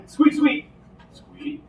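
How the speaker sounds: high squeaky rat noises. Pretend. Voicing the rats.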